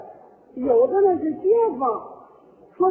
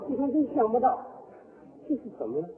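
subdued mock condolence; 4 semitones lower, 7 dB quieter, faster than usual. Acts mourner deciding to cry.

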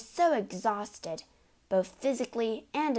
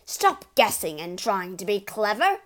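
scolding; 7 dB louder than usual. Acted. Father scolds Matilda.

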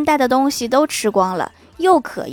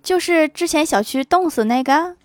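higher-pitched curious question; innocently nosy, retold query; 5 semitones higher than usual. Brother asks girlfriend about her ex, curious. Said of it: "好奇地问".

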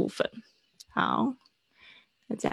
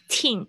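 put-on "teen" hit as the strong final syllable; stress on TEEN; 2 semitones higher than usual. Shown as a demonstration. Teacher showing where the accent sits, stressed "teen". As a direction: land the weight on "teen", ending in a nasal. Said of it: "它的重音是在后面".

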